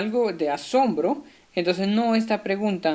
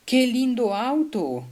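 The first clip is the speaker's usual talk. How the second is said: higher-pitched admiring exclamation; "lindo auto" exclaimed with amazement; 4 semitones higher than usual. Shown as a demonstration. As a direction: exclaim it in wonder. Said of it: "signo de exclamación porque expresa algo, ah, de asombro".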